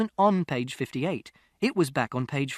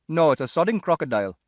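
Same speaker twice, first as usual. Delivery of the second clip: louder, scornful London shopkeeper; sarcastic shopkeeper; 5 dB louder than usual. A narrator's reading. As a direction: sneer it at the boy.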